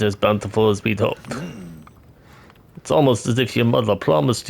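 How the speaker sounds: a hint of a Russian-tinged accent for the village chief; game villager greeting the newcomer, slight Russian accent; vague Russian accent. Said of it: "I don't know what this accent is either".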